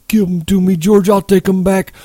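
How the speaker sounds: put-on high, childlike begging; anxious, high-pitched appeal; pleading. A narrator's reading. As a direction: plead urgently in a simpleton's high voice, easing toward the end. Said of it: "held out his hands pleadingly".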